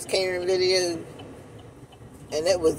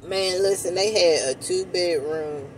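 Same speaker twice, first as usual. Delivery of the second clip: spoon against lips; talking between bites; eating ice cream; slower than usual. Real, not acted. Seen 2: Ice cream spoon held at her lips throughout the labelled speech.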